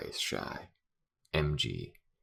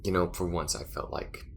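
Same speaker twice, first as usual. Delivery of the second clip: weary, bitter venting with long pauses; disillusioned space crewmate. Acted. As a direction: let the hurt out in halting bursts. Acted character vents about betrayal.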